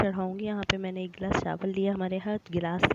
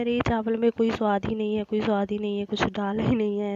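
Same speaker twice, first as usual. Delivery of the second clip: louder mock-exasperated complaint, pitch up; family complaining; 2 semitones higher, 5 dB louder than usual. Family grumbling about bland rice, mock exasperation. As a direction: whine that the rice has no taste, a bit louder. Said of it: "सब लोग कहते हैं".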